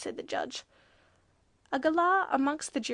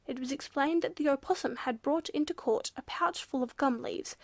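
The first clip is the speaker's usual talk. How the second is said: ordinary delivery, nothing marked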